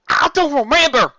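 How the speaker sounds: high, loud pleading shout; desperate cry. Acted. Applejack pleading with family, high loud cry. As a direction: cry out helplessly.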